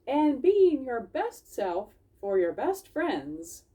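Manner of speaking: slow, tender fox voice; gentle Dawn. Acted. Dawn summing up the lesson for friends. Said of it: "Dawn said".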